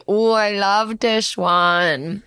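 slow, gushing cute aggression. Real, not acted. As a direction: squeeze the words with adoring glee. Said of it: "your cute aggression voice".

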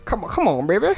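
lightly voiced impression. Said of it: "I used to not do his voice".

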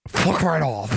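put-on British, close to the microphone; mock British dismissal; British accent. Shown as a demonstration. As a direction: do a British accent right up on the mic. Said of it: "do your British accent, please".

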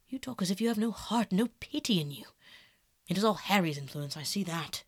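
restrained, saddened reproach; grave, reproachful Basil. Acted. Voices Basil in the quarrel.

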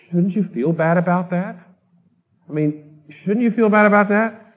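lightly voiced anxious questioner; retold questioner. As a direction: voice a troubled churchgoer pushing back. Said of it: "Somebody came up to me after last service".

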